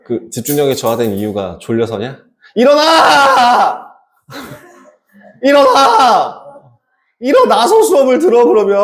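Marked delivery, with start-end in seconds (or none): 2.5-8.8 loud high yell to wake them; shouting. Real, not acted. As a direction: bellow at the sleepy class. Teacher yells at sleepy students.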